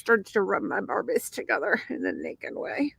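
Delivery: loosely faked Irish accent; put-on Irish accent. Telling of childhood Barbie play, in mock Irish. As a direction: slip into a mock Irish lilt. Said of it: "Why did you turn Irish again".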